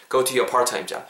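"Go to your" run together, one t in "part-time"; linked sounds. Shown as a demonstration. Teacher modelling the joined phrase, linked "part-time". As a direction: blend "Go to your part-time job" smoothly. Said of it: "요렇게 음이 붙는다라는 거".

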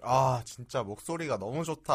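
slow, drawn-out admiring sigh; swooning admiration. Real, not acted. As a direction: melt at a lovely voice. Swooning over singer's recorded voice.

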